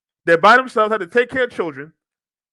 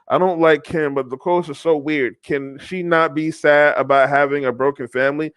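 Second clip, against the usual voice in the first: lower-pitched, measured reading voice; article read-aloud; 6 semitones lower than usual. Acted. Host reads reported reactions to viewers, article read-aloud. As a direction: read the quotes out from the page.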